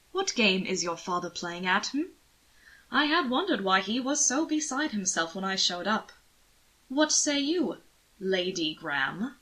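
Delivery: lightly voiced aristocrat, coaxing and sly; teasing nobleman. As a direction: probe him with a mild smirk. Anthony questions Will teasingly.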